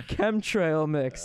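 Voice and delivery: slow repeat. Shown as a demonstration.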